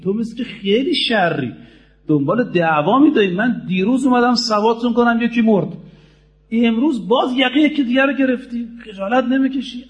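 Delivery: mildly indignant telling-off, pitch lifting as it goes; retold angry scolding. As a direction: imitate an exasperated rebuke. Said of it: "خیلی ناراحت شد".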